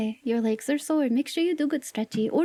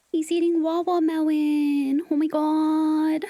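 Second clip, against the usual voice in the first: gasping surprise; 3 semitones higher, slower than usual. Real, not acted. Gasp at viewer's melon.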